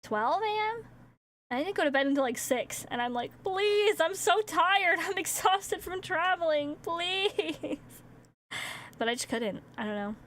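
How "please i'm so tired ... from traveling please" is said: high, whiny mock begging; mock pleading. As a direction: plead in a hammed-up, high-pitched voice. Retold pleading with sleep, exhausted.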